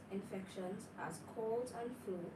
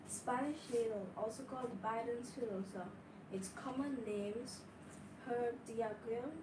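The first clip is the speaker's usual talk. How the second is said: speaking up. Real, not acted. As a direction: lift the voice so they hear. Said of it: "Could you speak up, please?".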